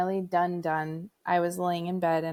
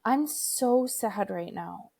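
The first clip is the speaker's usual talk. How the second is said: son's sad voice; 3 semitones higher, much slower than usual. Retold or imitated. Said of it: "And he goes".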